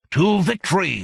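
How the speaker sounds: loud alien victory cry; shouted toast. Acted. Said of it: "Cesspoola shouted".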